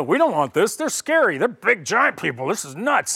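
mock-fearful whining crowd, pitch jumping up on scary; hammed-up scared complaining people; preacher voicing the frightened Israelites. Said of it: "And they go".

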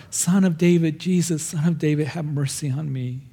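imitated plea, starting high and falling away; retold crying out. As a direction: call out for mercy, then let it drop. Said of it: "he just cries out more".

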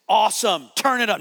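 retold rallying shout; defiant cheer. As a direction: call it out high and loud, taunting the demon. Retelling his defiant reply to demon.

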